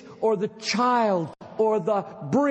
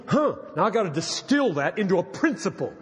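mocking a dull reader; 2 semitones lower, faster than usual. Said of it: "Don't read that sentence and say".

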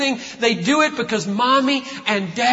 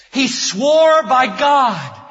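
loud, slow shout; shouted proclamation; 3 semitones higher, 5 dB louder, much slower than usual. Acted. Preacher proclaiming God's oath to the church, shouting slowly.

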